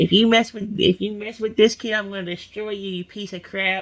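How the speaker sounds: put-on small, kid-like voice, softly. A speaker voicing Rexy threatens a big toad owl, Rexy's little kid voice. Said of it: "same little kid voice I always give him".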